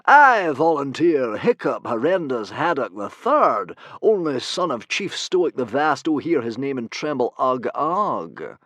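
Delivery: loud, slow heroic proclamation; shouting out. A narrator's reading. Humongous volunteering Hiccup before the boys, slow loud proclamation. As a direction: trumpet his name for all to hear. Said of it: "shouting out".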